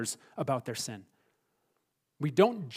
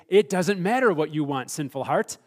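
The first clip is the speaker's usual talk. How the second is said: louder, emphatic talking-down; firm rebuke; 5 dB louder than usual. Acted. Preacher answering the sinful heart, firm emphatic rebuke. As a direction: put a stubborn voice in its place, starting loud. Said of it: "beat that stupid voice down in our hearts and say".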